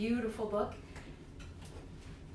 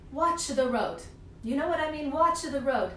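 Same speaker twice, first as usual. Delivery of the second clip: Nonna's advice; 3 semitones higher, 3 dB louder than usual. Retold or imitated. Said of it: "I remember Nonna would say".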